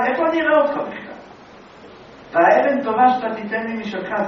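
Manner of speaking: loud, high indignation; sage's rebuke. Acted. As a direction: scold with rising force.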